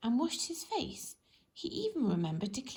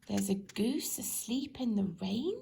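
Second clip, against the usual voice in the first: slow disbelieving repeat. Acted. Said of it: "repeated Farmer Fields slowly".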